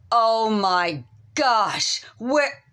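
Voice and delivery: slow, rising disbelief; shocked. Retold or imitated. Woman sees herself in the mirror, shocked. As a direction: gasp it out in dismay.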